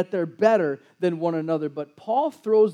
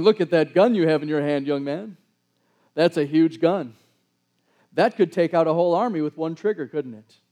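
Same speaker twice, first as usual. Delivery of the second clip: mildly sarcastic mock admiration; lightly acted big man humoring a kid. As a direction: feign being impressed by a child's toy. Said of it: "maybe I can continue this sarcasm".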